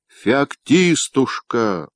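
feigned tenderness. A narrator's reading. Husband pretending to be gentle with his wife, fake tender. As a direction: coax her with fake sweetness. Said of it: "притворившись ласковым".

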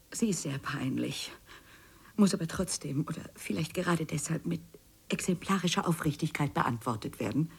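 hushed embarrassed whisper; breathy confession under the breath. Acted. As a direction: whisper it as if ashamed.

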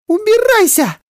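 very high, loud scream; mother's shout. Acted. Mother to father, screaming at him to leave. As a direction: throw him out. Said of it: "прокричала мама".

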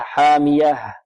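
حامية closing on a distinct breathed h; clear final ha. Shown as a demonstration. Teacher shows the final letter, clear final ha. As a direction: finish حامية with an audible h. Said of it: "والهاء هنا لابد من إيضاحها".

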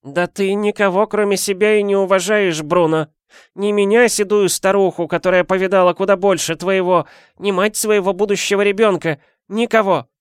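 put-on high, creaky-free old granny voice; old woman voice. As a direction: play the nosy old neighbour. Old woman rebukes husband.

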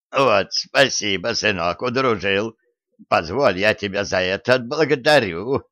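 lightly voiced old granny; a hint of a frail old woman. Old woman character speaks.

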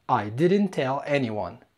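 very slow, each word spaced out; slow model sentence. Shown as a demonstration. Teacher slowly models the English sentence for learners, very slow. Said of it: "هنا هتقول I didn't tell".

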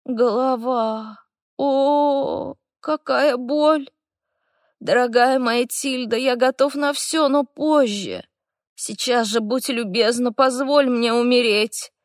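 выше, медленно, с надрывом; умирай красиво и напоказ; театральный страдалец. A narrator's reading. (похмельный эльф театрально умоляет Тильду дать умереть)

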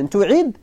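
تعد, opening on a drawn-out "tu"; damma on the ta. Shown as a demonstration. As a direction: say تعد slowly as "tu'id". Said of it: "بضم التاء".

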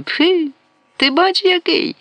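very high, slow indignant scoff. Acted. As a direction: huff at his cheek, drawn out. Продавщиця пирхає на Грака. (обурено пирхає, високо й повільно)

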